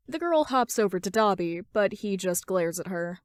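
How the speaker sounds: ordinary delivery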